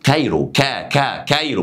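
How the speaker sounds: "كايرو" with hard k, first syllable isolated; hard k demonstrated. Shown as a demonstration. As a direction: repeat "كا" alone, then whole "كايرو". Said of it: "بصوا بصوا قلنا إيه؟".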